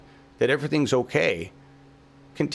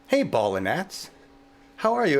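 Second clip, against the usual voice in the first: friendly greeting to bugs; 4 semitones higher, slower than usual. Retold or imitated. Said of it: "I was like".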